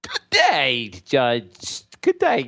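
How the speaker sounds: pompous, haughty gentleman greeting; a hint of a snooty aristocrat; Sir Insider voice. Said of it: "Sir Insider".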